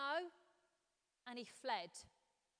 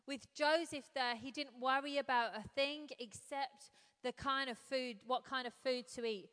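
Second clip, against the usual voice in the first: projected, louder Bible reading; scripture reading; 5 dB louder than usual. Acted. Preacher reading Genesis to the congregation, projected scripture reading. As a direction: read the passage out firmly to the room.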